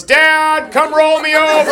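put-on high, whiny ten-year-old asking for help; whiny kid voice. Ten-year-old whining to dad to roll him over, high and pleading. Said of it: "a ten-year-old that goes".

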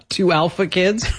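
teasing through laughter; laughing. Real, not acted. Teasing dad missed answer.

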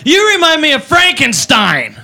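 put-on slow, slurry party-girl voice; drunk girl insult. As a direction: say it like a tipsy girl who thinks it's clever. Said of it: "She goes".

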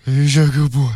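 cooing to a baby in a put-on voice; baby talk. Shown as a demonstration. Co-host telling an imagined baby how cute they are, cooing baby talk. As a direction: coo as if pinching a baby's cheeks. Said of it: "you're telling him how cute they are".

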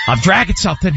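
dad about to blow a gasket, acted; imitating dad freaking out. Son retelling dad dragging a cord, mock exasperation. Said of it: "he just starts freaking out".

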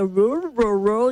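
rolled growly noise of an upset stomach; playful gut-rumble sound effect; stomach rumble imitation. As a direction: mimic a rumbling belly. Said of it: "começou a minha barriga".

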